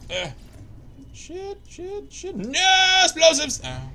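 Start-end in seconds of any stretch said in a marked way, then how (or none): 1.1-2.4 panicked cursing. Real, not acted. Panic in game. 2.4-3.6 overacted anime dub. Character-style cry in game.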